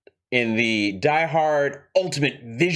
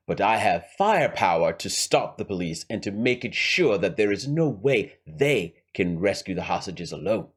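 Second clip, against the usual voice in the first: lightly voiced scheming villain with a rough accent; Hans. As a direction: lay out the heist deliberately, in character. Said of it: "Let's go back to Hans".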